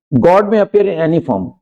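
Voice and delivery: slow, careful example sentence; dictating pace; slow example read. Shown as a demonstration. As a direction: read it out word by word for the class. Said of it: "slow example".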